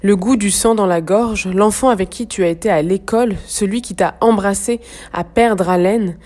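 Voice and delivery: measured, slightly projected poetry recitation; deliberate phrases set apart by pauses; poem reading. Acted. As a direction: read the verse gravely, pausing between lines. Reads the poem aloud.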